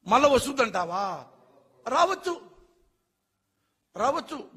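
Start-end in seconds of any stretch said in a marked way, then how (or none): 1.9-4.5 scornful dismissal. Real, not acted. Scornful retort to question.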